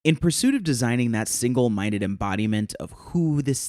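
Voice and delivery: calm, even storytelling read; bedtime story voice. Acted. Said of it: "in my best bedtime story voice".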